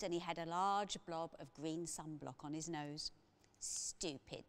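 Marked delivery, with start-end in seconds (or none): 3.6-4.4 scornful. A narrator's reading. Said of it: "said P J".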